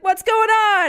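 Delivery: loud, high retold shout; mock outraged yell; exasperated shout. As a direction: yell it at him in disbelief. Acting out shouting at Steve.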